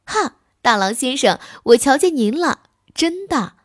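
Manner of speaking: gleeful, high and loud calling out; delighted shout at a discovery; bright excited call; happy cry. Acted. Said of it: "高兴地叫着说".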